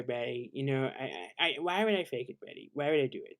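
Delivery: defensive whining to Betty; pleading husband impression. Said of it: "there's two different ones".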